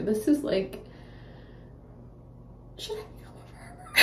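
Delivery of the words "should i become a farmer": laughing squeak. Real, not acted.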